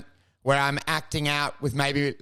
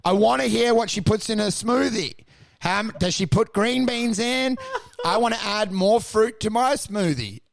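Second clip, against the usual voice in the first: smoothie fan; 4 semitones higher than usual. Retold or imitated. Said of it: "And they're like".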